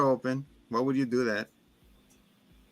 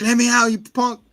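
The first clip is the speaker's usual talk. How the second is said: raised, louder panicked shouting; mock angry yell; 8 semitones higher, 5 dB louder than usual. Sitter locked in the attic, a hammed-up angry yell. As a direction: pound the words like he's trapped. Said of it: "He's like".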